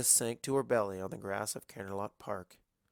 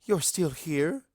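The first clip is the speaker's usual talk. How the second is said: higher, louder, slow and baffled; confused surprise; 5 semitones higher, 6 dB louder, slower than usual. A narrator's reading. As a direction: ask it in slow disbelief. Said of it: "in no small amount of confusion".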